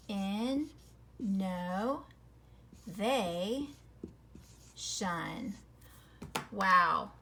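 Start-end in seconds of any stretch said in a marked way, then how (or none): 0.1-5.5 "In, no, they, shun" each piece split apart with pauses; syllable breaks. Shown as a demonstration. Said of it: "Look at this".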